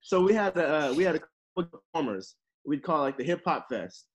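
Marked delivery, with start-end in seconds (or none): 0.0-2.3 tipsy and loose. Real, not acted. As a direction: talk a little tipsy. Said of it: "I'm a little tipsy right now".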